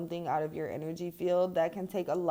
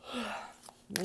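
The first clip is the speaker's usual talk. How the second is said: yawn; 4 semitones higher, 8 dB quieter than usual. Real, not acted. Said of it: "I cannot stop yawning".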